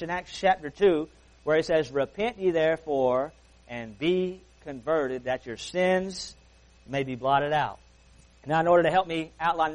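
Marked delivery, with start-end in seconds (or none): 1.9-7.8 slow scripture reading. Acted. Quoting scripture slowly.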